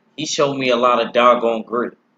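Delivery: ordinary talk, nothing marked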